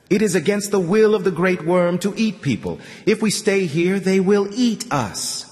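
a light take on a savage's broken talk; mimicking the savage. Artyom speaking like the savage to his captor. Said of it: "trying to express his thoughts exactly as the savage would".

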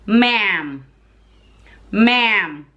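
MA'AM with a flat "a" as in "cat"; American MA'AM. Shown as a demonstration. Wife shows husband the word, MA'AM with a "cat" vowel. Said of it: "Just like the word".

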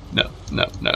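hushed panicky no; whispering. Pretend. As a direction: breathe the nos out. Backing off scared.

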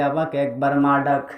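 melodic, low-pitched mother's lament; acted grieving mother's plea; tearful pleading. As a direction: plead in a slow chant with drawn-out endings. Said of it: "পাগলিনীর মতো কান্দে আর বলে".

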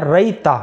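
ریتا as "rai-ta", a before Y; ریتا clearly as "rai-ta"; careful pronunciation. Shown as a demonstration. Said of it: "را یا زبر رئی".

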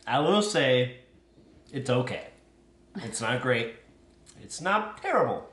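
speaking between chews; talking while chewing. Real, not acted. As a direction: mouth partly full of food. Seen 0: Hands empty; pursed lips and cheek movement suggest chewing after earlier bite.

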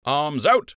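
called command. A narrator's reading. Lieutenant ordering the battalion, loud command. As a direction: call the line to attention. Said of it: "Lieutenant Dran called".

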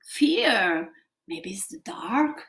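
spooky fearful whisper; mock frightened hush; scared whisper. Shown as a demonstration. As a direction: whisper like you're afraid of the dark. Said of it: "very scared".

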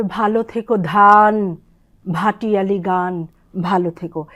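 slow recited line, leaning on ধান; slow poem recitation. Shown as a demonstration. Teacher reciting to show aspirated dh, slow and lyrical. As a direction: recite slowly, letting ধান breathe. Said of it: "এখানেও একই রকম".

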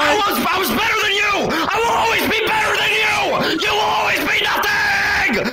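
hammed-up bitter shouting; exiled monkey ranting at his jealous brother; mock accusation. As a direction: rant at the brother who exiled him. Acted quarrel between monkey brothers.

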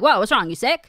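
loud mock-alarmed questioning; alarmed relatives. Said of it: "they're like".

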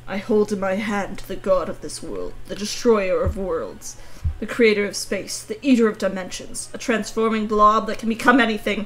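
epic proclamation building to a shout; grandiose villain voice. Pretend. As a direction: proclaim it like a doom-bringing villain. Grandiose declaration of power.

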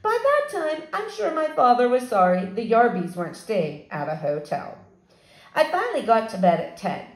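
lively read-aloud for a fourth grade class; story narration. A narrator's reading. Teacher reading a chapter book to her fourth graders, animated. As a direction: tell the story to the kids, brightly.

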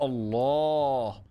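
long, slow, stretched-out "الله"; a slow, marvelling "الله"; drawn-out admiring wow. Real, not acted. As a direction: savour the word like a great play. Admiring a slick move.

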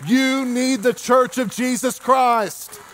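driving sermon that builds to a held-out climax; impassioned preaching. Real, not acted. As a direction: preach it with mounting force. Preaches at rising force.

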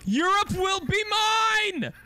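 shouted high evil conqueror; villain conqueror. Pretend. Role-plays conquering grandson.

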